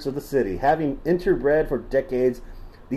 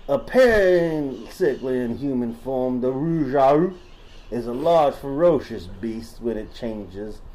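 put-on Southern accent; 3 semitones lower than usual. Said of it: "Should I stop doing the voice?".

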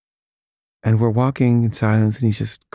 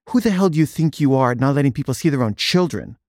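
retold outrage, pitch raised at the start; mildly heated, challenging mock confrontation; indignant retort; 3 semitones higher than usual. Retold quarrel with staff at door.

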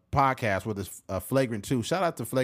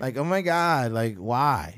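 put-on valley girl; slower than usual. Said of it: "the standard California voice".

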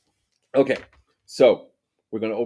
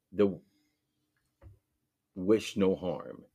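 ritual invocation. Acted. Opens space for spirits.

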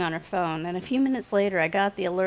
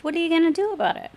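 fast, higher, louder dare; defiant challenge; 8 semitones higher, 4 dB louder, much faster than usual. A narrator's reading. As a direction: challenge her, quickly.

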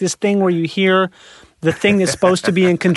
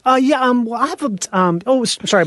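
fussy flustered voice; 6 semitones higher than usual. Retold or imitated. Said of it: "I have a lot of stuff going".

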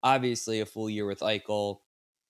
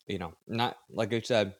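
mouth full. Real, not acted. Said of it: "I got a mint in my mouth".

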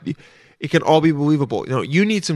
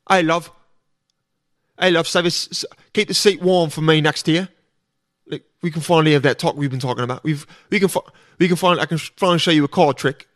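put-on Cockney accent. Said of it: "Cockney accents".

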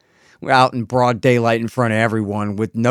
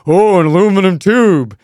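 Dave Chappelle; 4 semitones higher, 6 dB louder than usual. Retold or imitated. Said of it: "Dave Chappelle goes".

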